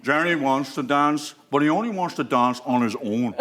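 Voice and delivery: slow, put-on politician voice; imitacja Jerry'ego. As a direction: draw out each phrase in a mimicked voice. Impersonates Jerry, slow and altered timbre.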